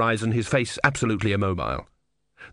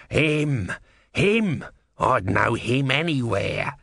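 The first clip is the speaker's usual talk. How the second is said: frantic tortoise voice; 2 semitones higher, much slower than usual. Acted. Tortoise keeps yelling.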